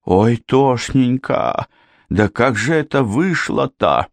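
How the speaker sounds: high, drawn-out keening; wailing lament. A narrator's reading. Janet trotting after the men to the shot man, wailing. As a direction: wail it like a distraught girl, stretching the vowels. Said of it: "на ходу заламывая руки и подвывая".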